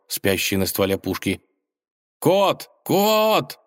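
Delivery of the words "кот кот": high, loud call for the cat; crying out. Acted. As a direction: holler the name up high. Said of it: "заголосил Иван".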